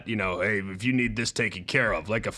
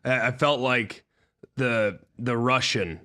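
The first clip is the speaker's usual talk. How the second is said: real hoarse voice pushed out; hoarse, losing his voice. Real, not acted. Host explains his voice to his co-hosts, hoarse and straining. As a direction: force the words through a shot voice.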